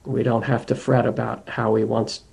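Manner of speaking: measured meditation guidance with long pauses; guided meditation. Acted. Teacher guiding listeners to attend to the breath, guided meditation. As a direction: lead them gently inward, leaving space between phrases.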